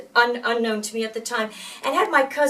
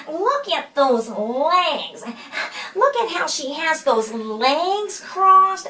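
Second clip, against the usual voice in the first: gossiping stranger; 5 semitones higher, much slower than usual. Retold or imitated. Stranger gossips about the brother.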